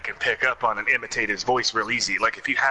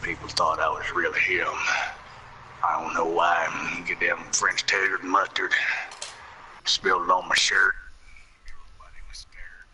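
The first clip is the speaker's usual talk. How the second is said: put-on Carl Childers voice; 4 semitones lower, 3 dB quieter than usual.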